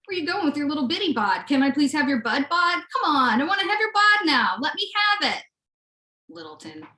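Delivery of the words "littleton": Littleton said quietly as one quick word; local pronunciation. Shown as a demonstration. Telling about Little Town, saying Littleton like a local. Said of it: "That's what the locals call it".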